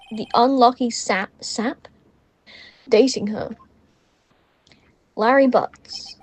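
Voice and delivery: measured story narration, slowing on key phrases; dramatic monologue. Acted. Lawyer introducing himself and his first case, measured monologue.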